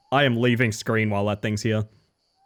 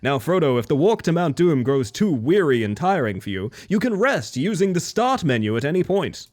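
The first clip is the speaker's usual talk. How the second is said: tutorial voice; 2 semitones higher than usual. Retold or imitated. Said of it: "video game tutorializing".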